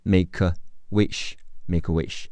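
"make a wish" with the k of "make" joined to "a", sounding like ma-ka wish; make-a-wish as one smooth run; linked make a. Shown as a demonstration. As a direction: join the k straight onto "a". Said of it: "make的科和呃连起来读".

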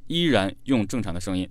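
ordinary delivery

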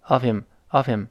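OF HIM as "uh-vim", h gone; linked OF HIM. Shown as a demonstration. Teacher repeats the linked form, OF HIM as "uh-vim". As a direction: slide OF into HIM without the h. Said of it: "几乎没有了".

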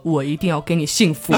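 low, deep vocal fry; imitating a deep magnetic croak. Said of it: "很浑厚、很磁性、很低沉的气泡音说".

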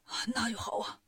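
soft sigh of relief; relieved. A narrator's reading. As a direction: let the words out on a relieved breath. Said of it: "老妖松了口气".

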